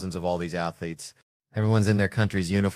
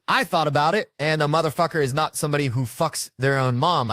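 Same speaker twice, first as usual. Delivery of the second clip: higher, louder neighbor voice; mock-earnest, raised-voice declaration; emphatic retold outburst; 7 semitones higher, 5 dB louder than usual. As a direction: act out the neighbor's insistent announcement. Acted neighbor blurting out his theory.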